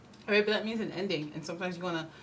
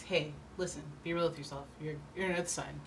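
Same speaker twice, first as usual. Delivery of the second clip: calm advice; 6 dB quieter than usual. Retold or imitated.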